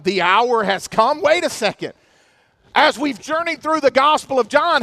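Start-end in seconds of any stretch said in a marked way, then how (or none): 0.0-1.9 puzzled double take. Retold or imitated. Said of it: "we're reading that and going".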